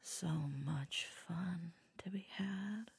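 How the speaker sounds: whispering. Acted.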